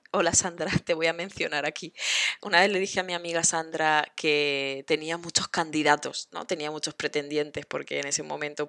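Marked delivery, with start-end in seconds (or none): none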